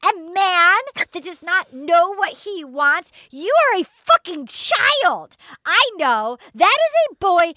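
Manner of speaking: high-pitched, hammed-up upset rant; mock tearful outburst. Co-host re-enacts Kat's crying interview about her birthday, mock tearful outburst. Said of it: "She starts crying".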